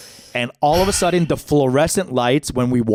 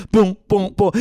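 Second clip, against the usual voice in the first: imitated bouncing; 7 semitones higher, 4 dB louder than usual.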